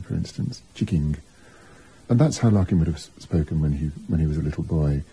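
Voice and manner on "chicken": "Chicking" said with a hard G sound at the end, mildly imitating the sister's accent; a light, retold Coventry "Chicking" with the G added at the end. Retelling how Larkin's sister said chicken: a lightly voiced Coventry "Chicking". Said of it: "she put a G on the end of the word chicken".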